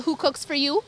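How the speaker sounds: hooted who cooks for you; barred owl call. Shown as a demonstration. Naming the barred owl call for kids. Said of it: "barred owls, they do the".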